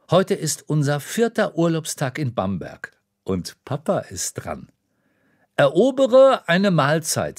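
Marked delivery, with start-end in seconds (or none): 5.6-7.4 put-on eager child's command. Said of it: "sage ich".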